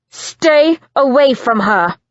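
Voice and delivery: loud, firm warning; hard warning. Acted. Simon warns Christian away from Lucy, loud and hard. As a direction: pin him with the words.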